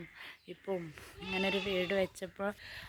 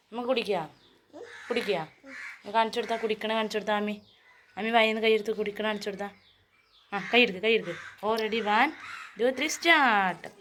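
coaxing; 2 semitones higher, 6 dB louder, faster than usual. Real, not acted. Coaxing sick child to drink.

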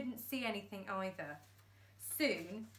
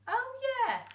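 very high, loud "oh"; dim realisation; 7 dB louder than usual. Acted. Thumbs realising they're upside down, dopey. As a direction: dawn on him slowly. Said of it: "replied Thumbs".

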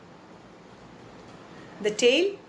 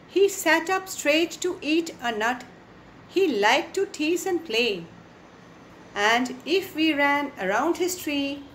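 poem recitation. Acted. Teacher reciting the squirrel poem to the class, measured and rhythmic. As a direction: read each line out like a recital.

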